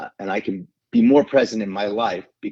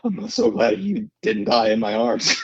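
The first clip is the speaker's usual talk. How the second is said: relieved. Retold or imitated. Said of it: "just like".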